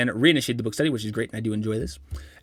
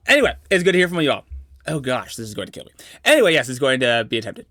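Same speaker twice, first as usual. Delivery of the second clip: mock narrator voice. Vlogger hamming it up as a narrator for speech-to-text. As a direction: pronounce every word like a documentary narrator, tongue in cheek. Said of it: "keep this mode of speaking".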